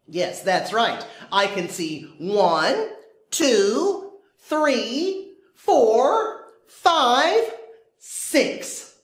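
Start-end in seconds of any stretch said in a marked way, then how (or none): 2.2-8.9 building excitement. Acted. Counting people with rising excitement.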